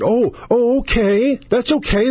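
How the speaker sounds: high, airy shrug of a voice; mock complacent Democrats. Mocking Democrats who shrug off stolen votes, high and airy. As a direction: brush it off like nothing matters. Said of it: "they just said".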